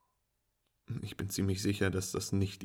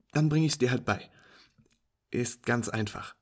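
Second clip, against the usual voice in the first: higher, louder teasing friend voice; amused female friend; 3 semitones higher, 7 dB louder than usual. Acted. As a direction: play her as an incredulous, teasing pool player.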